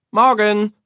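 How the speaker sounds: bright high morning call. A narrator's reading. Boy calling good morning to Mama. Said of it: "ruft Jan Arne".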